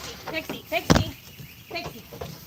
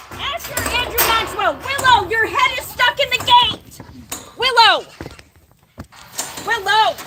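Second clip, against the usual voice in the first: high, loud call across the yard; 5 semitones higher, 3 dB louder than usual. Real, not acted. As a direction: call the goat's name, louder each time. Calling goat stuck in gate.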